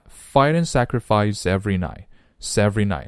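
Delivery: "sacrifice every" joined by the s; linked speech. Shown as a demonstration. Teacher drills linking, "fight and sacrifice every night" run together. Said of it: "连起来".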